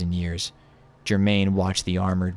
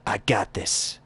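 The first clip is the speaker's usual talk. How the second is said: Drifter impression; slower than usual. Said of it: "I'm gonna do my Drifter impression".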